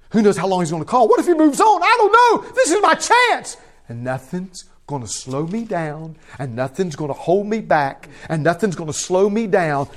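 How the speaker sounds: rising high and loud, desperate resolve; nothing will stop me getting to Jesus; beggar's urgency. Acted. Preacher voicing the blind beggar's determination, urgent and loud.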